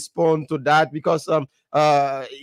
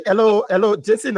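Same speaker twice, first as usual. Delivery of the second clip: louder, higher interruption to grab the floor; calling out to interrupt; 3 semitones higher, 4 dB louder than usual. Real, not acted. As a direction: cut in loudly over the guest. Host cuts in on caller.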